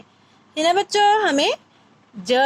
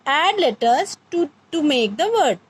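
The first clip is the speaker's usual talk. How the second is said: slow English; much slower than usual. Shown as a demonstration. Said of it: "teacher translating instruction".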